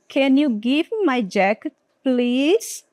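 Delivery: gentle rising request with please; polite request. Shown as a demonstration. Teacher modelling a polite ask for the jacket, gently. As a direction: ask nicely, lifting please. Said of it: "Mudou a entonação".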